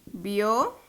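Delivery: bio, lo, gí, a with long pauses; syllable by syllable. Shown as a demonstration. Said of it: "Vamos a desglosarla".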